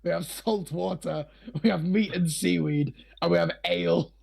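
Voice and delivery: lightly voiced pirate tavern server; a hint of salty pirate server; pirate barmaid. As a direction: list the drinks as a pirate barmaid, drawing words out a little. Game master plays pirate barmaid.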